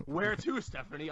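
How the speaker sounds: driver's reveal line. Retold or imitated. Quotes old-school driver reveal line.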